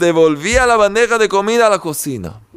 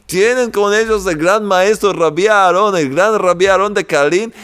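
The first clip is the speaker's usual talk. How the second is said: usual speaking voice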